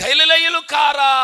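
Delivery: loud, high, slowed shout of గలిలయులు కారా; shouted question. Shown as a demonstration. Preacher acting the scornful Jews for the congregation, loud slow shout. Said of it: "నా వైపు చూడండి".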